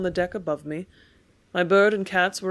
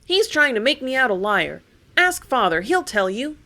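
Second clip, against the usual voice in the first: higher and louder, indignant; loud protesting cry; 5 semitones higher, 6 dB louder than usual. Acted. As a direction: insist loudly, nearly shouting. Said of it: "I cried just as loud as ever".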